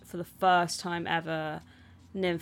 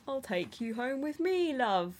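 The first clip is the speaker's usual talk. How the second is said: hint of his character's voice, pitched up at first; Stellan Skarsgård; 4 semitones higher than usual. Playing a film character offering help, light impersonation. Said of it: "That was his voice".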